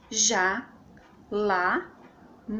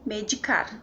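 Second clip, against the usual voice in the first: "medicar", landing on car; final stress. Shown as a demonstration. Teacher giving an example of oxytones, stressed on car in "medicar". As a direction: stress the last syllable of "medicar". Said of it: "medicar também está na última sílaba".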